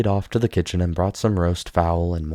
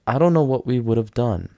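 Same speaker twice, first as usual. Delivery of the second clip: tearful; 6 semitones higher, 5 dB louder than usual. A narrator's reading. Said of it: "Sonetta burst into tears".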